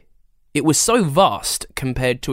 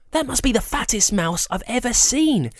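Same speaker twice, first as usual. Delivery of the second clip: cooed; 10 semitones higher than usual. Acted. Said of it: "Yasmin cooed".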